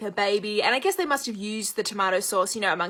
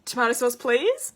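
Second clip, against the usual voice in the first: imitated tentative compliance. American lady repeating after waitress, tentatively polite. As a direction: repeat it meekly, lifting "please" at the end. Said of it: "she was kind of like".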